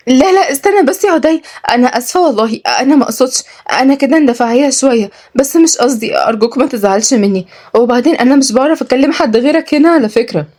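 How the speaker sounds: high, pleading heroine voice; apologetic young woman. Acted. Young woman begs her colleague to stay, high and apologetic. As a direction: pitch up, plead not to be misunderstood.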